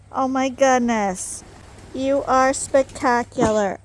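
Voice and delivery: loud, slow gushing; gushing praise. Real, not acted. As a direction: lay the praise on thick. Praising the sheep loudly.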